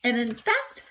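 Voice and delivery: put-on lively, expressive storybook reading of a girl's diary; reading aloud to children. Teacher reading a diary entry to her class, lively and expressive. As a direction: read it like a class storytime, bright and animated.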